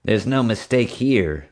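slow, sneering dismissal. Acted. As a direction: drawl it with contempt. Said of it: "Marge sneered".

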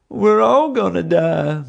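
high, loud, slow wail of doom; moaning. A narrator's reading. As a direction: moan it out in hammed-up despair. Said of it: "Bubba moaned".

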